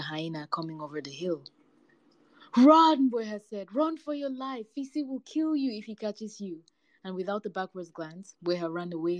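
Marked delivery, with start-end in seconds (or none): 2.6-3.1 loud, high cry of alarm; urgent warning cry. A narrator's reading. Jackal warns cat as hyena comes, urgent cry. 3.7-6.6 urgent warning. A narrator's reading. Jackal warns cat of the hyena, urgent.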